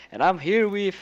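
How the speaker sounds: mock the host's weary intro, slowly, with a sigh; drawn-out imitation of a let-down announcer; host's unenthused tone. Panelist mimicking the host introducing a guestless show, unenthused. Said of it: "just like the tone that he usually does when it's only the panel members and no guests".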